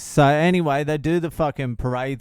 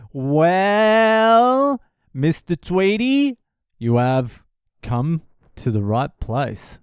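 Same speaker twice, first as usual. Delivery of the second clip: mock wise sage; 3 semitones higher, much slower than usual. Mock grand answer to listener.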